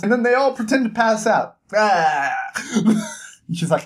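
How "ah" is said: drawn-out fake "ah" of collapse; mock fainting groan. Bar regulars pretending to faint at Jazz, hammed-up groan.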